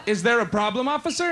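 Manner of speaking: lightly voiced coy girlfriend; a hint of sweet innocence for the officer; girlfriend charming a cop. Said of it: "When a cop pulls her over".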